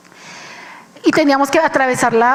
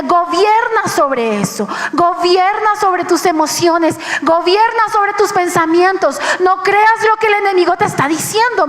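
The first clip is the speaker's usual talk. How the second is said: building from firm to higher and urgent; rising divine command, each line higher; voice of the Lord commanding; 4 semitones higher than usual. Retold or imitated. Preacher voices the Lord urging her, rising to a high command. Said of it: "Y el Señor me decía".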